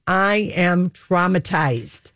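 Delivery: slow, deliberate quotation; emphatic quote. Retold or imitated. Host quoting the freed singer's past statement, slow and emphatic. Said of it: "she said that three and a half months ago".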